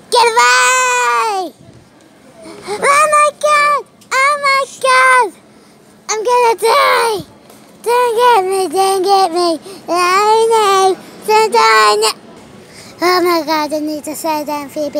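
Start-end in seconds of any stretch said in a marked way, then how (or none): 0.1-12.1 high, hammed-up cries of terror; play-scream as if about to die; mock panic. Mock panic on runaway trolley.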